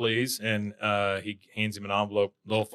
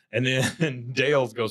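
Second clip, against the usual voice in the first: plain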